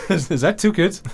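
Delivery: very high, disbelieving squeak of a question; acted-out astonishment; incredulous question. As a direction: replay your shock at unexpected news. Retelling astonished reaction at scan.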